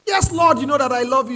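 loud declaration. Acted. Acting out Peter's reply loudly.

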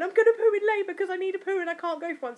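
gleeful announcement; excited text. Retold or imitated. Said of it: "I text my friend Emily going".

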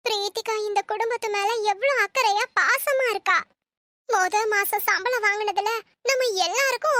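choked-up, moved to tears; tearful. Acted. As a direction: speak through welling tears. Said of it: "அதுக்கு ஏம்மா அழறீங்க?". (அழுகையுடன், நெகிழ்ந்த குரலில்)

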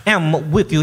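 loud, slow proclamation; forceful preacher's declaration; declaring. Acted. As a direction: declare it slowly at preaching volume.

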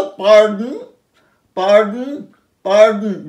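পার্ডন as paa-dn, no vowel before N; long first vowel, swallow the o of পার্ডন; indistinct O. Shown as a demonstration. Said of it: "ওটা অস্পষ্ট হয়ে গেল".

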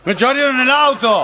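put-on drawn-out, high drunken holler; slow, high-pitched comic yell. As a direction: wail it out like an outraged drunk. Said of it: "A los gritos, estaba a los gritos".

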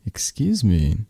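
whisper. Acted. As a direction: breathe it out with no voice at all. Whispered aside in intimate roleplay.

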